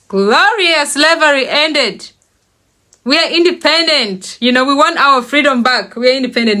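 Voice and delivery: imagined objector. Acted. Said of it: "somebody's going to be like".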